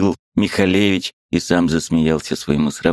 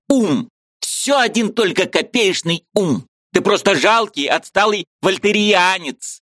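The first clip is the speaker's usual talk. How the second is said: high, eager voice of a Ukrainian friend; lively high-pitched friend arguing; Mikhalevich's voice; 12 semitones higher than usual. A narrator's reading. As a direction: play the excitable friend up high.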